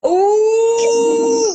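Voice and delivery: high, loud delighted ooh; excited cooing. Real, not acted.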